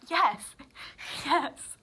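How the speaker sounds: high, loud yes breaking into laughter; laughing confirmation. Retold or imitated. Patient finally understood about her blind eye, laughing emphatically. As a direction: laugh at how obvious it is.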